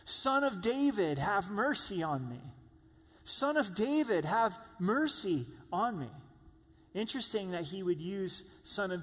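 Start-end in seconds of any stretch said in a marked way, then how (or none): 0.0-6.1 loud, high cry for mercy, as blind Bartimaeus. Retold or imitated. Blind beggar calling to Jesus: loud, high plea. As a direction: call out to Jesus across the crowd, pleading. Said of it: "he begins to cry out".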